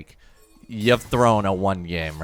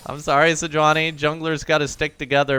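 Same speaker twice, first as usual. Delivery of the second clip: mock apology; 7 semitones higher than usual. Mock apology to enemy jungler.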